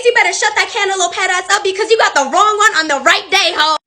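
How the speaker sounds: sneer, then let it rip; sarcastic telling-off. Retold or imitated. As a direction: server roasting rude customers. Server mocks and threatens customers.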